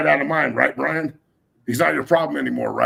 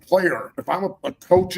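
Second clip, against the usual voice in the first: fired up; 5 semitones higher than usual. Real, not acted. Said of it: "I'm getting a little fired up".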